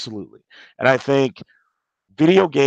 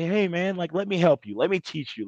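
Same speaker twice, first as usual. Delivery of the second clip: gentle offer; 6 dB quieter than usual. Retold or imitated. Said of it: "she took that opportunity to say".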